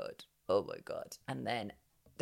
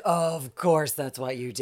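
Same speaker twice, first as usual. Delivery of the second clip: slower, laughing through it; laughing repeat; 5 dB louder, slower than usual. Real, not acted. Repeating to co-host, slow and laughing.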